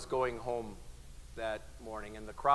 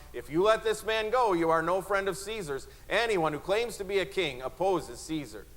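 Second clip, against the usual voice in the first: crowd shouting; 7 semitones higher than usual. Acted. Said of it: "the Jews kept shouting".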